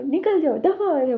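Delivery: half-acted yell of get out; retold shouting. Mother-in-law throwing the uncle out, mock shouting. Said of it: "बहुत ज़ोर ज़ोर से चिल्लाते हैं".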